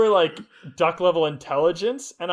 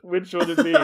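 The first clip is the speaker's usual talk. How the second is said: put-on amateur Aussie accent; Australian accent. Finishing the listener's question for co-hosts, Australian accent. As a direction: have a go at sounding Australian. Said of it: "my best attempt at that Australian accent".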